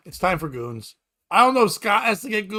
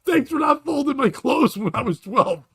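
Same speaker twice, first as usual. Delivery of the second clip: mock yell to Mom; 6 semitones higher than usual.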